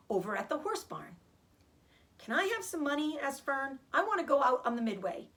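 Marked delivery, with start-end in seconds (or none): 2.2-5.3 put-on child's plea. Fern begging her mother.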